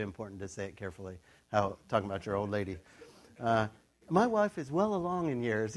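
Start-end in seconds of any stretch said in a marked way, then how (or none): 4.1-5.7 gently, choosing words kindly; careful and polite. Retold or imitated. Zechariah tactfully describing his aged wife, careful and polite. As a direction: say it delicately about your wife. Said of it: "He says it very nicely".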